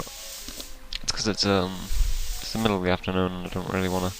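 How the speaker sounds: talking quietly so others won't hear. Real, not acted. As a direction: keep your voice down, people nearby. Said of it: "why I'm being a little quiet".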